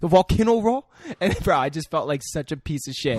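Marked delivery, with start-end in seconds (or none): 0.0-0.9 put-on high, loud Asian-accented question; mock Asian accent. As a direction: repeat the order in exaggerated Asian accent. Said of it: "it was so offensive".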